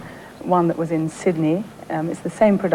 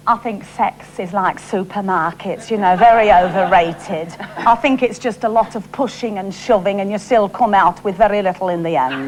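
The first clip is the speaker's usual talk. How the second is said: Shirley Valentine voice. Shown as a demonstration. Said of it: "But Shirley was".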